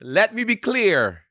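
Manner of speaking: put-on West Indian accent, slow and lifted. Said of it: "if I had a real West Indian accent".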